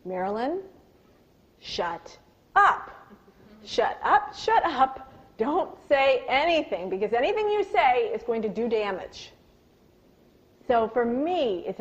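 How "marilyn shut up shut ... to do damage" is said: self-scolding inner voice. Retold or imitated. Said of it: "I say to myself".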